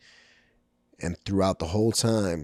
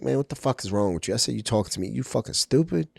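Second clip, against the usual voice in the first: insulted retort; 5 semitones higher, faster than usual. Retold or imitated. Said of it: "so disrespected and offended".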